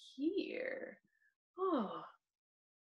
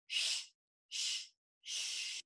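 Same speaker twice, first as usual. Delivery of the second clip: whispered shush; 13 dB quieter, slower than usual. Shown as a demonstration. Teacher showing the rest, whispering shh. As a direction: hush like a rest. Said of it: "when we see a rest".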